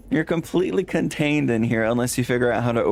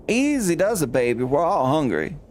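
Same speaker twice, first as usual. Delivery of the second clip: higher, coaxing calm-down voice; soothing NPC; 4 semitones higher than usual. Acted. NPC calms the hungry dinosaur, coaxing.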